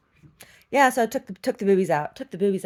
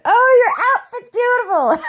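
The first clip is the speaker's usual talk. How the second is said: much higher, gushing imitation of passers-by; mock compliment; 12 dB louder than usual. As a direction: gush like a stranger. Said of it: "couple ladies, a couple guys".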